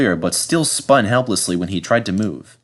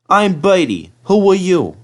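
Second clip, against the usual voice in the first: Bertie voice; 9 semitones higher, 5 dB louder than usual. Acted. Bertie the bus answers.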